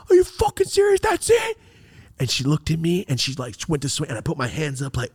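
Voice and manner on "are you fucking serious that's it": very high, incredulous shout; taunting yell. Retold or imitated. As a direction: yell it as a dare. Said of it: "And I yelled at her".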